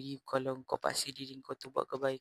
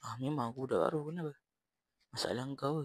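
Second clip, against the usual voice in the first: defiant retort; faster than usual. Retold or imitated. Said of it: "aku cakap".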